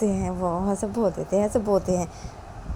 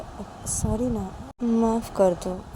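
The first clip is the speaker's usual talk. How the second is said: slow apology; 3 semitones higher, slower than usual. Acted. Sanju माफ़ी माँगता.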